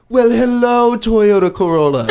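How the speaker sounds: mock-gushing greeting, high and loud; exaggerated server sing-song; over-friendly server. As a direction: greet it in a put-on hospitality voice. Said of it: "is this really who you".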